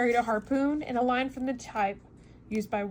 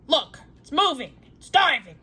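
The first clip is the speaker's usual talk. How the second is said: Ned calls out louder, pointing at the sea creature; louder, eager cry of discovery; excited cry; 4 semitones higher, 9 dB louder than usual. Acted. Harpooner Ned calls out to the others, excited. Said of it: "cried Ned Land".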